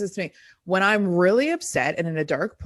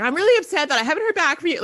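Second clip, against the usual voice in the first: mock upset message; 8 semitones higher, faster than usual. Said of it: "and I was like".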